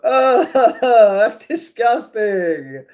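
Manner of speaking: slow, drawn-out playful disgust; mock disgust. Real, not acted. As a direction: stretch out a hammed-up yuck. Chat suggests vomit for breakfast.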